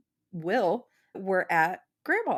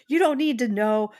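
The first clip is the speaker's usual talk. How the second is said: a hammed-up how-dare-you; mock outraged crowd; 3 semitones higher, 4 dB louder than usual. Street crowd scolds the dreamer, mock outrage. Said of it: "everyone on the street got upset".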